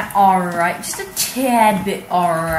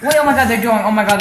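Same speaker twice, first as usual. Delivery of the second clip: shrieking jackpot winner; 3 semitones higher, 7 dB louder, faster than usual. Real, not acted. Watching a tense duel, excited.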